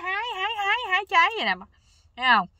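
veel hoger en luider, plagerig nagedaan; spottende imitatie. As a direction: doe de pronkende moeder spottend na. Mimics mother showing off while picking.

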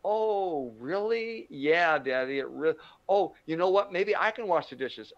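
high, eager mock surprise; hammed-up gullible dad. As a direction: play the sucker falling for it. Father falls for it.

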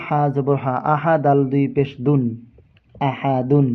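letter-by-letter tajweed spelling. Shown as a demonstration. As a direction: spell each letter and vowel in turn. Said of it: "তো আমরা সঠিক কিভাবে বলবো?". (হরফ ধরে ধরে বানান করে পড়া)

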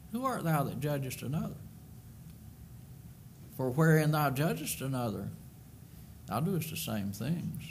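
scripture reading. Acted. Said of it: "understands Romans chapter two".

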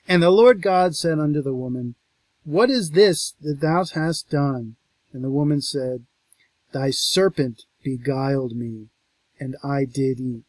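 scripture reading. Acted. Lecturer reading God questioning the woman, solemn. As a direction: read it with gravity. Reads the verse.

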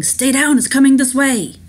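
acted shout to take cover; urgent warning. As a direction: call out a warning under threat. Man in dream shouting a warning.

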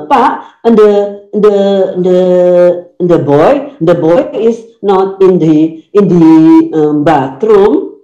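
thick Javanese-style English, "nde" for "the"; medok accent. Shown as a demonstration. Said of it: "kalau bahasa orang medok tuh selalu nde".

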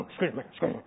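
low, soft muttering brute; put-on low guard voice; big ogre. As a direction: shoulder through a crowd as an ogre. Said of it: "They gotta push through the crowd".

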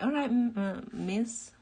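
posh, formal waiter voice; fancy waiter. Retold or imitated. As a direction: play a polite fancy waiter. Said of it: "he's really fancy. He's like".

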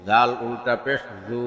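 final "জু" held long; drawn-out vowel. Shown as a demonstration. Teacher demonstrating ulta pesh, long "জু". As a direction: stretch the last "জু" for one alif. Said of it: "একালিপ টেনে পড়তে".

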